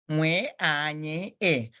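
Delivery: "Nwe a, nye e" with each letter pair blended into one syllable; sounded-out spelling. Shown as a demonstration. Teacher repeating the corrected spelling for the pupil, measured and segmented. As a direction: say "Nwe a, nye e" in clear chunks. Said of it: "supposed to be pronounced together".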